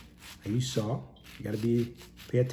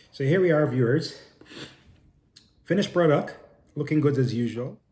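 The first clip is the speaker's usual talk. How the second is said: proud reveal; 5 semitones higher, 8 dB louder than usual. Real, not acted. Proud reveal of finished dish.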